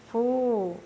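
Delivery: FU, MA, DAS with a gap after each; syllable by syllable. Shown as a demonstration. Teacher splits the word for pupils, Fu-ma-das in separate syllables. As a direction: break Fu-ma-das into separate beats. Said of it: "é uma sílaba".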